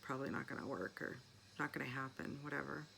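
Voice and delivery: low, unconvinced brush-off; dismissive. Retold or imitated. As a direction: wave it away, doubtful. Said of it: "And I'm just like".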